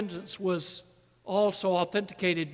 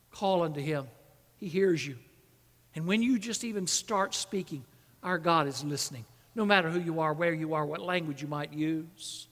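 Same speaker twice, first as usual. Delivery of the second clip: lower, softened preaching voice; gentle reassurance; 5 semitones lower, 4 dB quieter than usual. Real, not acted. Preacher telling listeners that God is listening, reassuring. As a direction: settle down and reassure them quietly.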